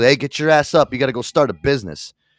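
blunt, firm fatherly dad voice. Retelling a comedy bit where a father wakes his son: imitating the father in Sebastian Maniscalco's bit. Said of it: "he snaps his finger, he goes".

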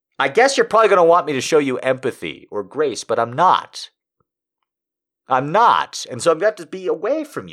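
very loud, high angry outburst. Talking about American kids dying of COVID and the midterm, you speak in an angry voice. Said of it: "You can hear the anger in my voice".

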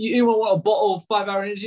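put-on British accent. Retelling what a promo rep kept saying: imitating a british accent. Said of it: "A British guy so British".

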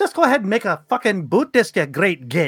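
put-on Irish accent, swooping sing-song, leprechaun-style. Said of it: "answer my calls with an Irish accent".

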